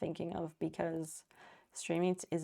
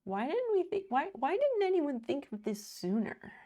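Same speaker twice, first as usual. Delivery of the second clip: excited; 8 semitones higher, 4 dB louder than usual. Real, not acted. Excited discovery of a topping.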